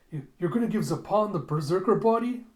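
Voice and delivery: aghast outburst; horrified disbelief. Retold or imitated. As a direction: protest in shock. Ito horrified at plan.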